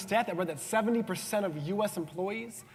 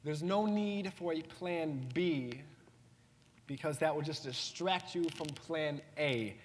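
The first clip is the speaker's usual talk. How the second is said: much slower, measured quote; slow emphatic repeat; 4 dB quieter, slower than usual. Retold or imitated. Repeating Will Smith's saying to the audience, slow and deliberate. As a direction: draw out each phrase so it sinks in. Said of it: "let me say that again".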